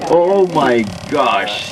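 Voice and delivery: imitating a woman tourist. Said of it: "she says".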